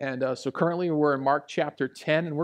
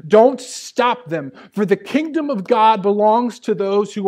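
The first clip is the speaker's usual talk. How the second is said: loud, raised scripture proclamation; forceful preaching; 5 semitones higher, 6 dB louder than usual. Real, not acted. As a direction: proclaim the verse firmly to the congregation.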